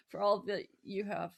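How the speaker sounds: talking through a giggle; teasing, laughing. Real, not acted. Laughing while teasing the host.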